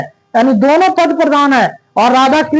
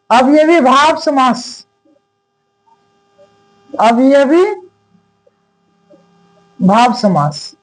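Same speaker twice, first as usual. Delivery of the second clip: अवयवी said alone with pauses, then भाव समास low; slow term breakdown; 3 semitones lower, slower than usual. Shown as a demonstration. Teacher breaking the term down slowly for students. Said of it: "teacher stressing term".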